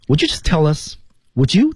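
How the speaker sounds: "would you" run together as would-ju; linked speech. Shown as a demonstration. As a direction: link "would you" into one smooth unit. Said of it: "注意连读".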